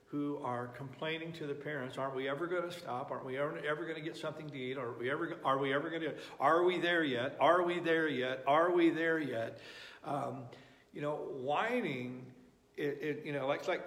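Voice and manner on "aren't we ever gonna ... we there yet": put-on whiny backseat kids. Pastor mimics children nagging their parents from the back seat, whiny and building. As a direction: nag like a kid in the back seat. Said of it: "backseat driver children".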